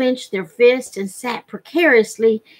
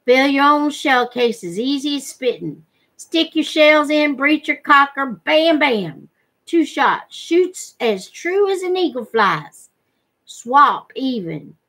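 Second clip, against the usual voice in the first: lightly voiced gun trader; 4 semitones higher than usual. Trader selling his gun to Penny, lightly voiced eager pitch. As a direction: talk up the gun like a backwoods trader making a deal.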